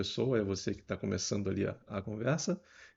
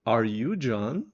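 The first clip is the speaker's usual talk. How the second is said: slow demo; 5 dB louder, much slower than usual. Shown as a demonstration. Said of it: "vou perguntar quem é essa segunda pessoa".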